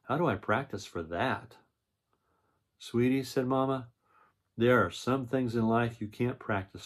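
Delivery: storybook read-aloud voice; reading to children. A narrator's reading. Reads the picture book aloud.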